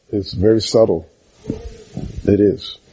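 normal talking voice

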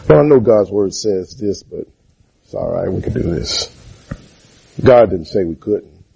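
mock nonchalance. Preacher mocking a believer shrugging off God's word, nonchalant. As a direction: toss off God's word like it doesn't matter. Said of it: "if you're talking like that".

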